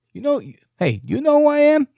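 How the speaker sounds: rising to a loud, high British gangster challenge; British gangster accent. Retold or imitated. Mocking the candidate's clout, loud British gangster accent. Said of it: "He sounds like a gangster in a British accent".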